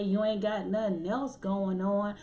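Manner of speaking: mildly hammed-up telling-off of a couch sitter; badgering TV ad voice, lightly acted; mock yelling ad man. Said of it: "this dude would come on the screen yelling".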